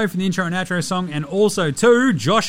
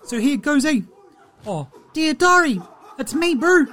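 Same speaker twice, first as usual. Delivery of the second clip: Steven Adams impression; 3 semitones higher than usual. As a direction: play a laid-back New Zealand giant reading his diary aloud. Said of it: "close out the week with a Diary of Steven Adams".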